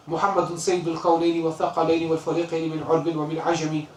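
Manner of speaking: quick, rhythmic recitation of classical Arabic verse; Arabic verse recited fast; poem recitation. Acted. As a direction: recite the couplet in flowing chant. Recites Burda line.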